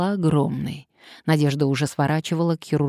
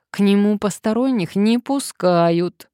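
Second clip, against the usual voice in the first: higher, louder whiny objection; whining; 5 semitones higher, 5 dB louder than usual. A narrator's reading. Reluctant man being dragged along, whining. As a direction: whine it to get out of going. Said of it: "ныл он".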